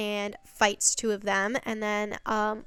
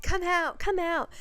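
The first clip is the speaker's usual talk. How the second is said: higher-pitched mock yelling, no real volume; 8 semitones higher than usual. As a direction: imitate someone calling out, pitched up. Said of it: "he's, like, yelling".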